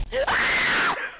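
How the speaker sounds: very high-pitched shriek; high scream. Real, not acted. Player scared by the game, screaming in everyone's ears. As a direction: shriek at the top of your range. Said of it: "I'm sorry for screaming in everyone's ears".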